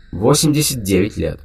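crisp, even machine read-out; each word rapped out flatly; clipped machine voice. Acted. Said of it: "отчеканил голос".

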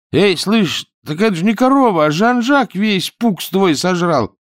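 high-pitched, urgent calling out; alarmed shout. A narrator's reading. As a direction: shout it over to a neighbour in alarm. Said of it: "Чонкин закричал Гладышеву".

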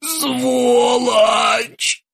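strained high pained groan. A narrator's reading. Krueger groans in pain after a kick to the stomach. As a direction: moan it while winded. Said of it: "простонал Крюгер".

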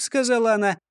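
ordinary delivery

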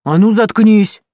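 loud snarl to shut up; barked threat; wrestling her down and yelling; angry shout. A narrator's reading.

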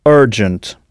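urgent said with an er vowel, ER-jent; English urgent. Shown as a demonstration. Teacher tells learners to note it, urgent with English er. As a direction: say urgent with English er, not French ur. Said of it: "notez bien la prononciation".

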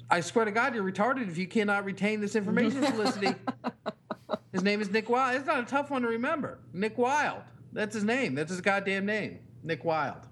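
dad fed up with repeated question, amused exasperation; mock exasperation. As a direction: vent at the kid half-laughing. Exasperated dad venting at daughter.

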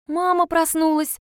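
put-on high, slow child's joyful cry; excited child. A narrator's reading. Girl hearing her mother wake, high joyful cry. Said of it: "встрепенулась Яна".

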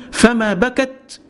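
"فما بكت" drawn out very slowly, each word weighed; slow, deliberate repeat. Shown as a demonstration. Preacher repeating "فما بكت" slowly so the congregation takes it in. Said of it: "تاني كده".

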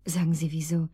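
wary hushed whisper; suspicious whispered question. Acted. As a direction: ask it under your breath, guarded.

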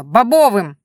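loud shout of Бобовым. A narrator's reading. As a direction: yell Бобовым so the deaf old man hears. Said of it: "гаркнула я во всё горло". (выкрикнуть «Бобовым!» во всё горло)

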